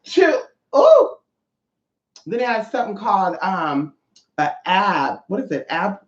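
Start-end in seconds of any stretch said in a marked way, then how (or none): 0.0-1.1 counting reps, pitch leaping up high; mock exertion. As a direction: act out straining through leg presses. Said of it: "you be like".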